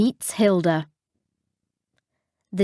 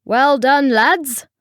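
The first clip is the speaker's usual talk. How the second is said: smiling praise; 5 semitones higher, 4 dB louder, slower than usual. A narrator's reading. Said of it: "smiled Ray".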